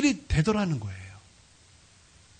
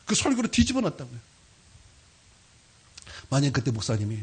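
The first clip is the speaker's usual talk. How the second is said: ordinary talk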